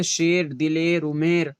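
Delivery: शेर, दिलेर, उमेर with "e", not "ee"; majhool vowel demo. Shown as a demonstration. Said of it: "खींच कर नहीं पढ़ी जाती".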